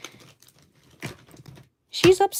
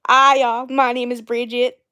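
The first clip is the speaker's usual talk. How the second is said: put-on Alabama farm-girl introduction, loud at first; mock an Alabama farm girl introducing herself; terrible Alabama accent; 3 dB louder than usual. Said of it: "that's my terrible".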